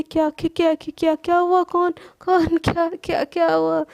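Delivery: jolted awake, tripping over the words; startled panic. Acted. Sana wakes in a fright to the quarrel, stammering. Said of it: "घबरा के उठती है".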